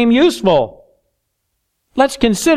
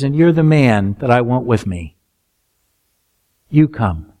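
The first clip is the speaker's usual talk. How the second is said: kind and gentle; 9 semitones lower than usual. Acted. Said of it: "extremely kind and gentle".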